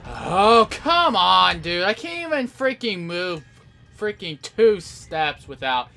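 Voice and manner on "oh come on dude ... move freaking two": loud, frustrated groan of complaint; exasperated protest. Real, not acted. Player blasted by enemies, exasperated. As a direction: protest loudly at unfair play.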